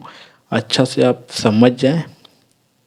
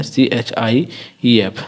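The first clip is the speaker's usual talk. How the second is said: slow spelling; much slower than usual. Shown as a demonstration. Teacher spelling a word aloud for students, very slowly. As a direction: spell सीएचआईईएफ़ letter by letter, very slowly. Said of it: "जैसे कि सीएच हमारा लेता हूँ मैं".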